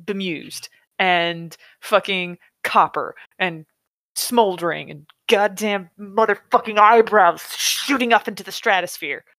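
exasperated, emphatic rant; fed-up rant building to a swearing outburst; pissed off. Real, not acted. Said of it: "I'm fucking pissed".

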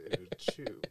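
whispered punchline. Acted. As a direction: drop to a whisper for the joke.

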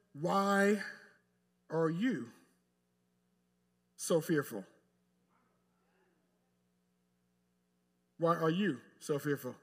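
gentle, measured rebuke with pauses; loving rebuke. Acted. Jesus lovingly rebuking his disciples, in a measured gentle rebuke. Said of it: "say it exactly the way he said it".

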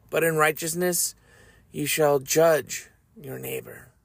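measured, solemn reading of Leviticus; scripture reading. Shown as a demonstration. Reading verses to his audience, solemn scripture voice. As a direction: read each commandment with weight.

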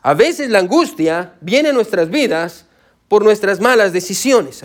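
slow and deliberate, word by word; measured dictating pace; slow dictation. Shown as a demonstration. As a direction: spell it out slowly so they can write it down. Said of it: "Si está escribiendo, escriba esto".

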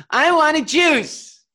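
put-on high, slow whining little girl; whiny toddler demand. Father mimicking daughter's whiny juice demand. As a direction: drag out want like a sulky child. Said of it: "she just throws down her arms and she goes".

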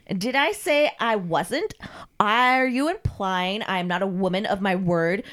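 drawn-out, affronted challenge; imperious mistress. Acted. Mistress rebukes Carl for doubting her, haughty. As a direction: challenge him slowly, word by word.

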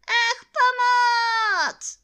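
very high, drawn-out cry for help; storybook bear calling for help. A narrator's reading. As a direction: wail it loudly, stretching the words. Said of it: "zvolal Pů".

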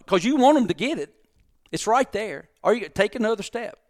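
high-pitched, pressing retold rant; exasperated. Re-enacts exasperated rant at staff.

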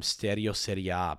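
Italian pronunciation with a tapped r in Stereo; Italian accent. Real, not acted. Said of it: "said it with a fucking Italian accent".

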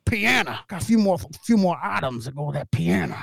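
"piano" said as "pee-anna"; put-on country "piano" ending in a flat "-anna"; mimicked Southern pronunciation. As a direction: twang "piano" into "pianna", Southern style. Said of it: "That's why he says piano".

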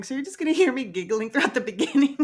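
fast words bubbling with giggles; giggling. Real, not acted. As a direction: talk while failing to stop laughing. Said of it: "I can't stop laughing".

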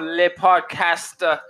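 mock French, stretched slow; fake French accent. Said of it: "my fake French voice and shit".

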